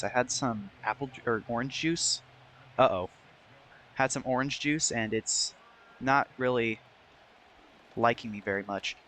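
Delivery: hoarse, losing voice; strained, voice giving out. Real, not acted. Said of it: "I'm losing my voice".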